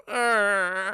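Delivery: drawn-out mock sob groan; imitated crying. Dad crying in his sleep, imitated sob. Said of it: "who is crying and sleeping".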